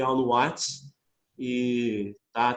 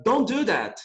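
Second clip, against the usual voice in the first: firm order, higher pitch; commanding order; 7 semitones higher, slower than usual. Shown as a demonstration. Teacher demonstrating an order to students. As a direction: give a sharp command. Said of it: "Agora eu vou ordenar alguma coisa".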